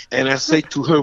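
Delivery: ordinary talk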